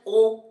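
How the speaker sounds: ओ sounded out clearly as an open o; ओ साफ़ बोलो; vowel sound shown. Shown as a demonstration. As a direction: say ओ firmly as a demo. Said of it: "ऑनेस्ट।".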